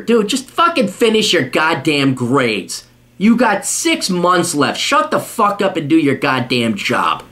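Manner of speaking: slow, emphatic scolding; stern berating. Real, not acted. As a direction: spell out the order slowly, fed up. Berating the student.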